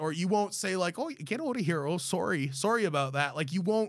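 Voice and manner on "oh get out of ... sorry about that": stereotypical put-on Canadian accent. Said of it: "things that I would typically associate with the Canadian accent".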